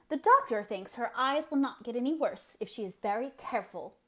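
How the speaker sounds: a hint of a falter, hesitant. Anne faltering over Marilla's eyes, hesitant. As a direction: hold back a worry. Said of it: "faltered Anne".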